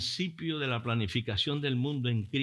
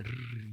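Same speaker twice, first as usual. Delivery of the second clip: soft rolled "rrr" shudder; low, quiet trilled shiver noise; imitated shivering; 5 semitones lower, 11 dB quieter than usual. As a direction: mimic the body trembling. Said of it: "comienzo a temblar ahí".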